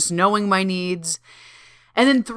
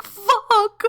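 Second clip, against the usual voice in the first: startled curse; 14 semitones higher than usual. Retold or imitated. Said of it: "at first I was lightly triggered".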